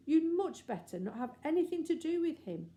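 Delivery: high, loud, urgent warning; reckless warning. Acted. Reckless Anthea warning the lady, high and urgent. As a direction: blurt it out recklessly. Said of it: "the now reckless Anthea went on".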